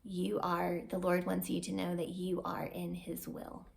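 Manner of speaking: softly voiced reassurance from the prayer warrior; sweet prayer. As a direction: soothe like a praying friend. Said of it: "very sweetly prayed over me".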